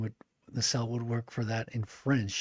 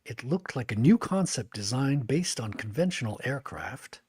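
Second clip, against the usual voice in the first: steady storybook reading voice; narrator voice. Shown as a demonstration. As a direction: read it like an audiobook narrator. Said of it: "my narrator voice".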